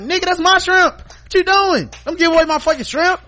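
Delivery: high, loud hammed-up protest; mock outrage. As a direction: yell at the chef giving away your shrimp. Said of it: "And I'll be like".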